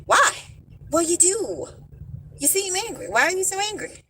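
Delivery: high, mock-innocent question; quoting a viewer's question, high and teasing; lightly mocking. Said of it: "somebody said".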